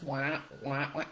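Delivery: a quiet, light wah wah like the cartoon teacher; Charlie Brown teacher wah. Mom repeats the cartoon teacher noise, soft mock wah-wah. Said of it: "the teacher sequence".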